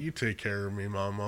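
blocked-nose voice; talking through a stuffy nose. Real, not acted. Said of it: "not when I'm stuffy".

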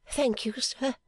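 high, tearful gratitude; tearful thanks. A narrator's reading. Fanny thanks Clennam, high and tearful. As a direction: thank him on the edge of tears. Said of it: "bursting into tears".

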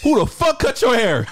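laughing while mocking slowly; laughing tease. Real, not acted. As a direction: giggle through the insult. Laughing teasing about a haircut.

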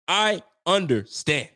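I understand drawn out slowly, sarcastic; slow knowing repeat. Real, not acted. Fan mocking the benching decision, slow drawn-out I understand. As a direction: stretch out I understand, dripping irony.

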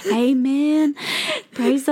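lightly acted church lady, slow and drawn out; a hint of Southern churchgoer; old Southern Baptist woman. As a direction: draw it out like an amen from the back pew. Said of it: "an old Southern, like, Baptist woman".

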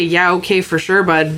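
put-on light Canadian accent, dry and curt; a hint of a Canadian, fed up but polite; pissed-off Canadian. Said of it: "if you hear a Canadian say".

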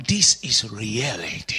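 mock doubter. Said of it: "Well, you say".

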